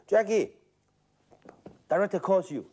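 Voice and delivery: calling out. Retold or imitated. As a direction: call his name from afar. Someone calling him on set.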